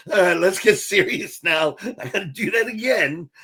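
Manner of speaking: giggling through it; trying to get serious while laughing; laughing, trying to compose himself; laughing self-correction. Retold or imitated. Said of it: "And I was like".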